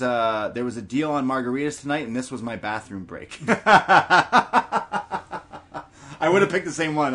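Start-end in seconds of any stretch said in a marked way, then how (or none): 3.4-5.8 loud burst of laughter; big real laugh. Real, not acted. Laughs at the bathroom break joke. 6.2-7.1 laughing. Real, not acted. Laughing after the joke.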